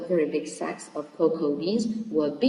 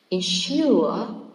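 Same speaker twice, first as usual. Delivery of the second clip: "Ensure" with a loud, drawn-out SURE; teacher's demo of "Ensure", en-SURE; stress on second syllable; 3 semitones higher, 6 dB louder than usual. Shown as a demonstration. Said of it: "should be stressed on the second".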